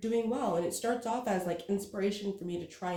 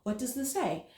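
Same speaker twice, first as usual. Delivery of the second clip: 1 frustrated retelling; 6 semitones higher than usual. Retold or imitated. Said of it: "I was getting so frustrated".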